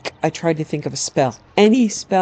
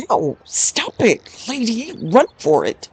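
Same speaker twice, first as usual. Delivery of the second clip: high, strained yelps; panicked protest; 6 semitones higher than usual. Acted. Wood elf grabbed by the antler, panicked. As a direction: yelp it out in alarm, pitched high.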